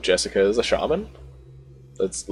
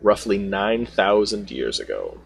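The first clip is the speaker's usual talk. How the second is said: lightly acted deliberate delivery, pausing between phrases; slow, savored words. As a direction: take your time, relishing each word a little. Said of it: "He takes his time, accentuating each word".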